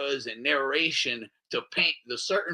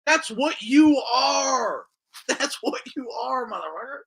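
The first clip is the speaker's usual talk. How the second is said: laughing accusation; 9 semitones higher than usual. Real, not acted. Speaker accusing the pedo hunters, shouting through laughter. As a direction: accuse them while cracking up.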